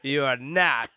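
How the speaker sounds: put-on slow, emphatic wronged-drunk declarations; mock indignation. Wronged drunk disowning his friends, slow mock indignation. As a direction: pronounce judgment haltingly, through some laughter.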